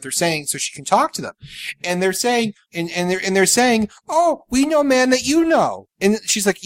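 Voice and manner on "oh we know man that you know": mock Japanese accent. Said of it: "very thick accents".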